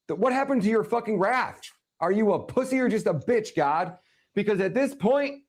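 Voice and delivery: high, impassioned rant at God; real outrage, pitched well up; angry plea. Real, not acted. Man demanding answers from God over killed children, angry plea. Furious outburst addressed to God.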